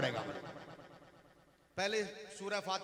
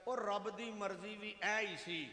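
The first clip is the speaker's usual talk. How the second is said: soft voice; 5 dB quieter than usual. Shown as a demonstration. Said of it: "हल्की सी आवाज".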